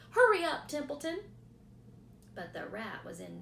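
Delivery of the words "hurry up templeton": higher, louder urging; pushing the rat to move. A narrator's reading. Wilbur urging.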